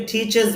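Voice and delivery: টিচেস with an e in the last syllable; demonstrated wrong টিচেস, ending "-es"; common mispronunciation. Shown as a demonstration. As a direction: say টিচেস ending in "-ches", the way many say it. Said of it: "এরকম হবে না".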